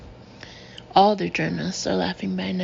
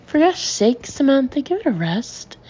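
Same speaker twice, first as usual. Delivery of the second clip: higher, louder irritated snap; impatient snap; 6 semitones higher, 4 dB louder than usual. A narrator's reading. Guy to Samantha, impatient snap. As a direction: cut her off, fed up. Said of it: "snaps Guy impatiently".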